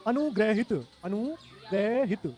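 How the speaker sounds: अनुग्रहित broken into drawn-out syllables; slow dictation. Shown as a demonstration. Teacher dictates the word while writing, slowly. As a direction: sound out अनुग्रहित in slow pieces.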